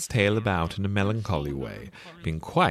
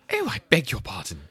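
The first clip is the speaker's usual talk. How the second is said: flustered apology, a touch higher; great dismay; 6 semitones higher than usual. A narrator's reading. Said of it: "in a tone of great dismay".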